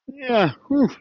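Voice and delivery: relieved whew. Pretend. Relief after imagined speech.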